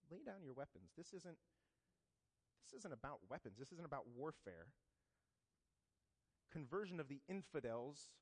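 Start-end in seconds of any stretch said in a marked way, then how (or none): 0.1-4.7 soft, gentle voice from a vision; hushed and calm, like a holy vision; quiet voice of Jesus. Retold or imitated.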